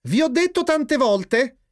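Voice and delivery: slow, high-pitched mother's scolding; admonishing. A narrator's reading. Mother reminding both sons of her rule, admonishing. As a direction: admonish them high and slowly. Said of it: "ammonì la signora Binda".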